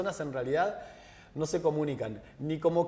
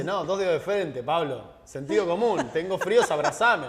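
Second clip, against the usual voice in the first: put-on louder, exasperated retelling of his girlfriend's scolding; 7 dB louder than usual. Girlfriend scolding Pablo for missing the obvious, exasperated and louder.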